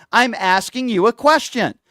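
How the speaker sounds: slow, spelled-out insistence. Real, not acted. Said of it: "I'm not insulting you".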